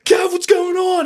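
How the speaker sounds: high, slow, stretched shout; loud imitated coworker's call; calling-out yell. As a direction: holler down the hall after him.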